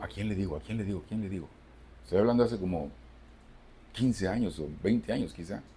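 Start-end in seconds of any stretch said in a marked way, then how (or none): 0.0-1.5 panicked self quote. Retold or imitated. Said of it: "Y yo digo".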